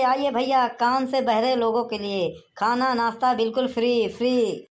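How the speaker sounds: street hawker's drawn-out sing-song call; calling out to passers-by. Acted. Food-stall host inviting villagers to free food, calling out. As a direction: invite the crowd in with stretched endings.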